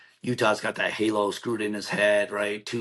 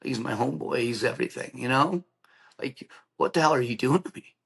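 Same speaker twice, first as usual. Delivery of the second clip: higher-pitched, mildly anguished pleading; retold tearful protest; 3 semitones higher than usual. Crying out to God after friend's injury, retold tearful protest. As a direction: protest to God with a touch of hurt. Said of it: "And I'm crying. I'm like".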